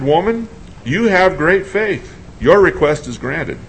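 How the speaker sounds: slow, measured declaration; solemn pronouncement. A narrator's reading. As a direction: grant it slowly and gravely. Jesus pronouncing healing.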